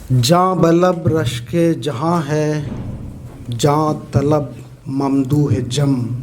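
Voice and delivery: slow, measured Urdu verse reading; poetry recitation. Acted. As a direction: recite slowly, letting each half-line stand alone. Recites a second nazm.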